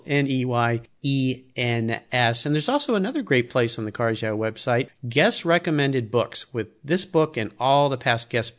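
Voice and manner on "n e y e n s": letter by letter, "N E Y E N S"; spelled out. Shown as a demonstration. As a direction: spell "N E Y E N S" slowly, one letter at a time. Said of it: "but it's spelled".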